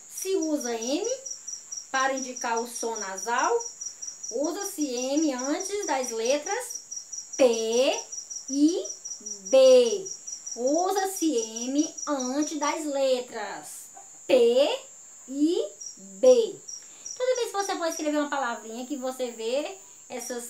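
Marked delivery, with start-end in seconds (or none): 4.3-10.1 slow lead-in, then P and B punched loudly; deliberate rule-giving, loud isolated P and B; stress on P and B. Shown as a demonstration. Teacher stresses the spelling rule. 10.6-16.6 slow lead-in, then P and B punched loudly; deliberate rule-giving, loud isolated P and B; stress on P and B. Shown as a demonstration. Teacher repeats the rule emphatically.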